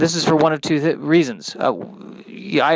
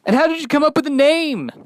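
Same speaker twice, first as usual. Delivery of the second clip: radio DJ; 12 semitones higher than usual. Acted. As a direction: pump up the show like a cheesy DJ. DJ voice again.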